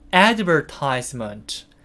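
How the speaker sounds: advertisement with weight on first syllable "ad". Practicing the long English word advertisement: stress on first syllable 'ad'. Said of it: "앞에다가 강세 주시고요".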